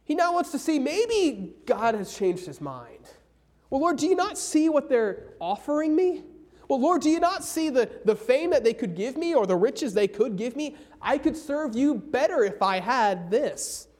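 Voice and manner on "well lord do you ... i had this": higher, wheedling plea to the Lord; lightly voiced whiny pleading; pleading Balaam. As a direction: bargain with God for riches. Balaam bargaining with God.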